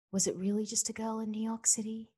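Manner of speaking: breathy whispered teaser line; whispered hint. Pretend. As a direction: whisper it like a secret clue. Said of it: "And then I thought".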